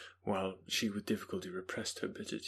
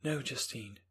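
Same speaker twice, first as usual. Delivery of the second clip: Elizabeth; 4 semitones higher than usual. Acted. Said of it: "said Elizabeth".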